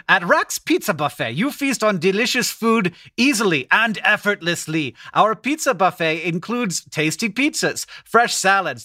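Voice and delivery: put-on unconvincing German-accented ad copy; attempted German accent. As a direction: try a German accent, barely landing it. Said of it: "read it to you in a German accent".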